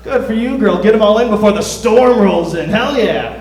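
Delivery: loud, high-pitched whooping congratulations; rowdy cheering. Acted. Friends celebrating Jessica's news, loud hyped-up cheering. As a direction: cheer her on like a champion.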